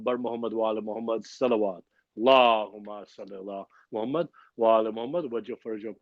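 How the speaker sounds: quick chanted call to send blessings; salawat call. Acted. Host calls the gathering to send salawat, chanting. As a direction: rattle off the salawat like a prayer leader.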